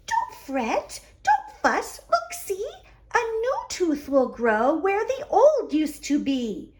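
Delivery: high little squeak of a voice; lightly voiced mouse, soothing Bear; squeaky Mouse. Mouse comforts Bear in a small squeaky voice. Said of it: "Mouse squeaked".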